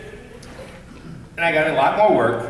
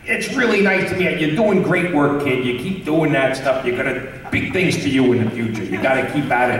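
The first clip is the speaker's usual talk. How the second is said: put-on light, friendly old-man voice, lightly done; a gentle nod to Stan Lee's cheerful greeting; Stan Lee impression. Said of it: "as Stan Lee".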